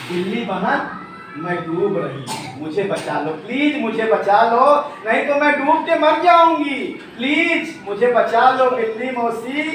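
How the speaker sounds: mild pleading, rising to a cry; pleading bird. Acted. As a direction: beg the cat to save her. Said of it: "चिड़िया बोली". (डरी चिड़िया की हल्की विनती)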